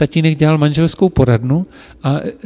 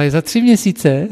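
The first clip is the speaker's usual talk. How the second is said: surprised; 3 semitones higher, 5 dB louder than usual. Retold or imitated. Mistress surprised by his boast.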